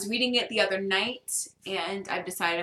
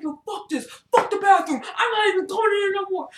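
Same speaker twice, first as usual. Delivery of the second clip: high, exasperated mock shouting; retold pissed-off rant; 11 semitones higher, 4 dB louder than usual. Refusing to enter the bathroom with a bug, pissed. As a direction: rant in a raised pitch, acting fed up. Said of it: "But I was pissed".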